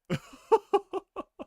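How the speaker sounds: high giddy laughter; gleeful laugh. Real, not acted. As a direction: let a happy laugh spill out. Fan laughing with joy.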